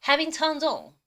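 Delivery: very slow, drawn-out English; slow pronunciation demo. Shown as a demonstration. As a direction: model it slowly for students. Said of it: "오 번 발음해 보겠습니다".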